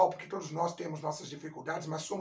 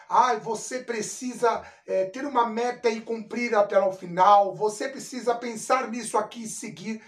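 louder, insistent quoted advice; lightly voiced coach; 7 dB louder than usual. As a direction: press the advice like a course coach. Voicing coaching course advice as quote.

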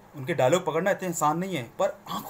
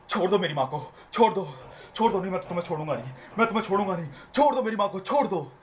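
hammed-up overacted rescue shouting; over acting; 3 semitones higher than usual. Shown as a demonstration. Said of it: "ओवर acting लगती है". (Over acting वाली चिल्लाहट)

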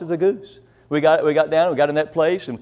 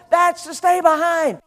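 lady shouting; 10 semitones higher than usual. Retold or imitated. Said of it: "And she said".

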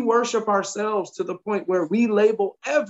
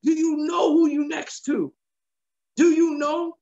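high, strange demon voice, pitched way up; scared demons; 8 semitones higher than usual. Retold or imitated. Demons cowering before a man of God, high strange voice. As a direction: voice the demons trembling inside him. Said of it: "They were probably like".

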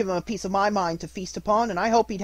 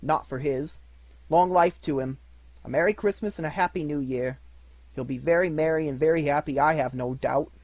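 grudging toast; 3 semitones higher, 5 dB louder than usual. Acted. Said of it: "said Missus Cratchit".

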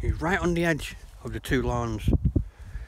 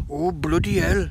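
mock pained groan, higher and drawn out; hammed-up agony, pitched up; pained reaction; 5 semitones higher, 4 dB louder than usual. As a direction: slowly exclaim as if just kicked. Kicked man reacts in joke.

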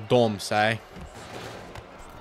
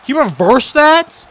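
slow, much higher, loud disbelief; incredulous; 13 semitones higher, 11 dB louder, much slower than usual. Real, not acted. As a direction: drag out stunned outrage. Disbelief at game reversal.

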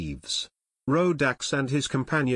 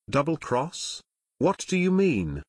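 questioning echo, then a higher demand; 3 semitones higher than usual. A narrator's reading. Rodax reacting to talk of a double cross, demanding. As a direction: demand an explanation, pitch jumping on the follow-up. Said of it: "Rodax demanded".

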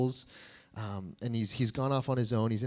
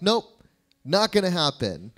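higher, louder stubborn "nope"; flat refusal; 5 semitones higher, 5 dB louder than usual. Pretend. Us refusing pain and challenge, loud stubborn refusal. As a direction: dig your heels in. Mimicking our refusal of change.

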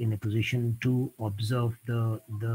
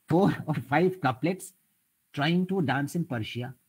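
slower and higher, savouring each word of 'Four or five couplets'; slow poem recital; 4 semitones higher than usual. Shown as a demonstration. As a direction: recite the couplet slowly like verse. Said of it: "a very interesting couplet I will quote". (savoured couplet recital)

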